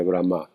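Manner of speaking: Brahma with the accent on the last A; stress on final A. Shown as a demonstration. Teacher pointing out the accent to students, Brahma stressed on final A. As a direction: stress the second syllable of Brahma, bra-MA. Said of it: "Vean el acento en la A".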